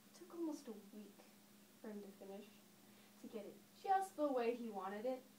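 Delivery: lightly acted storyteller recalling childhood; understated reminiscence, swelling and then dropping back; Daphne. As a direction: tell it as a stage monologue, with long pauses. Performs Daphne's monologue about her father.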